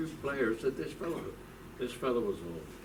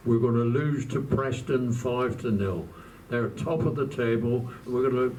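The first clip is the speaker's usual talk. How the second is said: panicky; 2 semitones higher, 7 dB louder than usual. Retold or imitated. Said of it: "he was in a bit of a panic".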